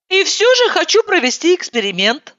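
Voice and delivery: high, resolute declaration; determined. Acted. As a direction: announce it with full resolve. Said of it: "со всей решительностью заявила я".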